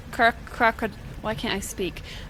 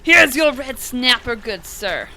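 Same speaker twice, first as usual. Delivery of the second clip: put-on serving voice; 2 semitones higher, 8 dB louder, slower than usual. Hands over fish in put-on voice.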